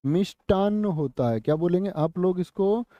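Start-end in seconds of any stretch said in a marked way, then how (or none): 0.0-0.9 "मिष्टान्न" as mish-taann, plain t; "मिष्टान्न" with unaspirated ट and double न; correct ṭ and double n. Shown as a demonstration. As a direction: drill "मिष्टान्न" with a held final n. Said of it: "क्या होता है साथी?".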